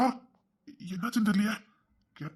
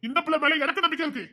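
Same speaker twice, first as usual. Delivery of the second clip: angry retort. Acted. Heated family quarrel.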